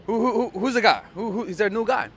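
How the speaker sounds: put-on a boyfriend suddenly sensing a rival; mock jealous panic; panicked confusion. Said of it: "it makes him think".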